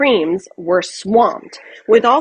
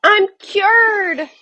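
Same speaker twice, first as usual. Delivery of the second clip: much higher, louder cheer; joyful shout; 10 semitones higher, 4 dB louder than usual. Acted. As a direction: shout the good news. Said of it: "she shouted".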